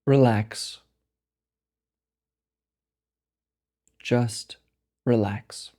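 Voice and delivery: slow meditation voice with long pauses; guided meditation. Acted. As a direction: guide them slowly into rest, phrase by unhurried phrase. Leads a meditation.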